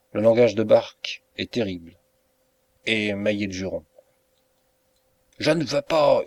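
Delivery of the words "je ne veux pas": louder, higher angry shout from a narrator; narrated yell. A narrator's reading. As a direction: shout the refusal as the furious lodger. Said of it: "hurle Bark".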